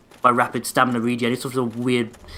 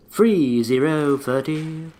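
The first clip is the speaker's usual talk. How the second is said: bingo caller; 2 semitones higher, much slower than usual. Retold or imitated. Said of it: "Sound like a fucking bingo caller".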